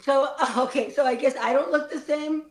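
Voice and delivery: understated mock hurt; very sad. Graduate questioning a classmate in the sad replay, very sad. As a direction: play sad with a touch of laughter. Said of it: "we're all very sad".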